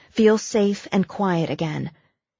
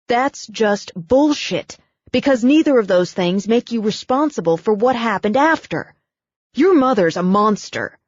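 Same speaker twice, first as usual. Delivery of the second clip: indignant anger; 3 semitones higher, 4 dB louder than usual. Acted. Brooke angry at her mother.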